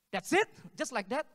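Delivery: can't believe it's that easy; surprised. Retold or imitated. Neighbor surprised by simple answer.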